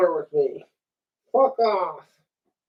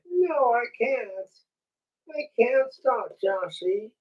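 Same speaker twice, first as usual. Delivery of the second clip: dummy voice; 4 semitones higher, 5 dB quieter than usual. Acted. Dummy answering, high voice.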